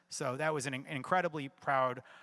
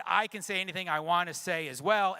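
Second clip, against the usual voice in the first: mildly raised, imitated comeback; retold matching retort; 3 semitones higher, 4 dB louder than usual. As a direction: retell throwing his words right back. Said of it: "in a tone that matched his".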